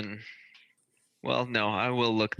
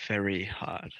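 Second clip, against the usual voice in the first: whispering; 2 semitones lower, 5 dB quieter than usual. Acted. Player privately telling a friend about the punch, whispering. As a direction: answer under your breath. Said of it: "we're whispering to each other".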